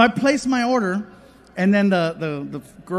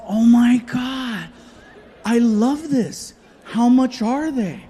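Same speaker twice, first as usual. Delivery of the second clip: excited; 4 semitones higher, 5 dB louder, slower than usual. Retold or imitated. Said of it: "I said".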